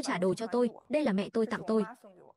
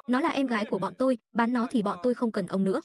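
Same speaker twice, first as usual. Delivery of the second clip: louder, hard defiance; louder defiance of the father; angry defiance; 4 dB louder than usual. Acted. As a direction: shout him down to protect your sister. Brothers defy father angrily.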